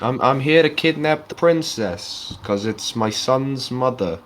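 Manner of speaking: slow, drawn-out mock villain voice; Bowser voice. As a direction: ham up a slow Bowser boast. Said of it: "he's like".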